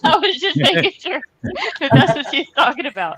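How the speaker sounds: laughing through the words; giggling while explaining. Real, not acted. Laughing at own story.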